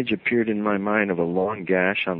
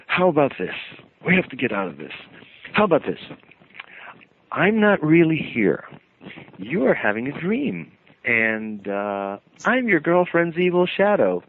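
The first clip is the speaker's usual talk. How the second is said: a hint of a high, mischievous imp voice; lightly voiced trickster creature; sly creature taunt; 6 semitones higher than usual. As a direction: creature teasing the dreamer.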